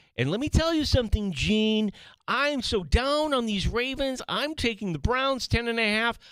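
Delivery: very high, put-on Baltimore accent. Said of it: "that's my P J Glasser".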